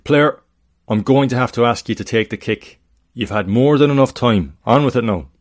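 stern, loud official telling a player off; authoritative referee. Acted. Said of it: "The referee's authoritative voice".

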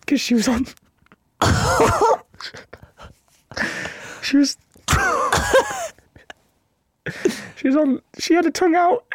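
can't hold it together telling the sad part; real helpless laughter mid story; laughing through it. Real, not acted. Cracking up telling dead cat.

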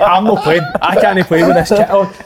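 giggling mock refusal; playful laughing protest. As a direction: laugh through the words as if refusing to play.

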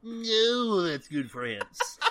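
slow, giggling echo; laughing. Retold or imitated. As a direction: repeat it while laughing.

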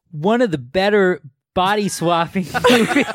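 put-on American frat boy voice, laughing through; frat bro. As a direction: read it like a dude bro. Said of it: "Read it like a frat boy".

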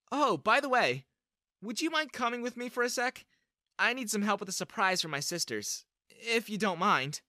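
put-on high sweet girl's voice, lightly done; lightly voiced girl. Valerie asks Clyde to come help with a surprise, light high girl voice. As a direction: ask him sweetly for a favour.

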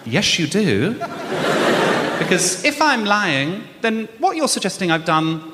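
slow, laughing disbelief, spelling it out; laughing exasperation. Retold or imitated. To the parking officer, a laughing, incredulous rebuttal. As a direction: lay out the absurd logic through laughter.

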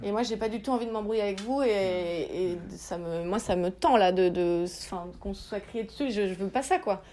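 quiet, conciliatory appeal to make peace; real hurt, held back and soft; emotional. Real, not acted. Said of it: "je suis rentrée un petit peu dans l'émotionnel".

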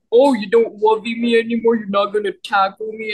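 lightly voiced pouty boyfriend; a hint of sulky boyfriend; teasing boyfriend. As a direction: tease her with mock hurt.

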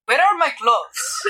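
loud, slow, startled in-character cry; shocked outcry. Acted. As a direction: react aghast at your outfit. Character finds herself in costume.

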